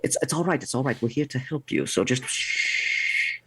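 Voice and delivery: gently hushing; changed, reassuring voice. Acted. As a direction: reassure them, ending on a long hush. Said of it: "Now I'll change my voice again".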